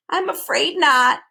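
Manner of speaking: sad reply. A narrator's reading. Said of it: "he replied sadly".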